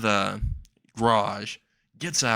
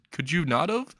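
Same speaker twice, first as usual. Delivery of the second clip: exasperated question; 6 semitones higher than usual. Acted. Retold pleading reply.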